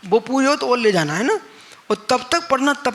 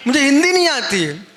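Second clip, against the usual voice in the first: mock quote, higher and louder, laughing through it; laughing retelling; 6 semitones higher, 4 dB louder than usual. Preacher laughs retelling the herd boy's reply to monks. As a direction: repeat the boy's line while cracking up.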